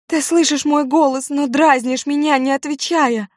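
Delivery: distraught pleading. A narrator's reading. Judith begging her dead brother to wake up, frantic and distraught. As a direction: beg him desperately to wake.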